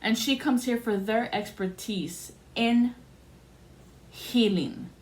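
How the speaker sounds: mock-important, drawn out toward "healing"; pointed, rank-pulling quote. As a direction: imitate her stressing each word, "healing" set apart. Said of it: "When she said it like that".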